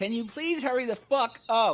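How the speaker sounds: sweetly condescending tone. Showing how a rude request sounds when said while smiling: demonstrating smiling while rude. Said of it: "And I'm smiling".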